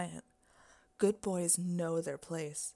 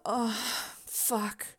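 rising high, loud breathless cries; climax cries; 6 semitones higher, 4 dB louder, much slower than usual. Acted. Mistress losing control in front of her boy, climaxing in high loud cries. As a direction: let it build to a peak, then spill over high and loud.

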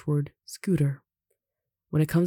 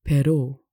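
"però" with a loud last O; final stress; 6 dB louder than usual. Shown as a demonstration. Teacher shows written accents, stress on the O. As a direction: punch the second syllable of "però". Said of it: "which has the accent on the O".

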